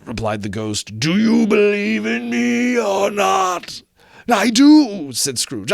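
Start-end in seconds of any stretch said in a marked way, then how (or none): 1.0-3.8 higher, slow, loud wailing challenge; ghost demanding. Acted. Ghost demanding Scrooge's belief, slow wailing ghost voice. 4.3-5.1 high, loud startled reply; frightened answer. Acted. Scrooge answering the ghost, high frightened cry.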